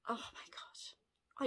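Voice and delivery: slow, breathy hushed awe; stunned, slow whisper; slow awed whisper. Real, not acted. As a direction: whisper it slowly, overcome. Cat theme realised.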